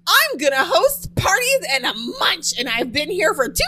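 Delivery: impression of Rara. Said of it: "That's my impression of Rara".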